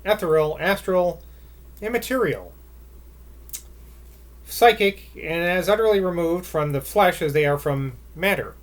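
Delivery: measured, expressive literary reading; story narration. A narrator's reading. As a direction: read it like a novel aloud. Reads a literary passage aloud.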